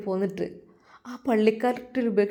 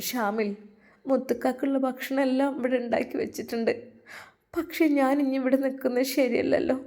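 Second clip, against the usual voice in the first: put-on gentle young woman; 4 semitones higher than usual. Razia takes leave of Shamil.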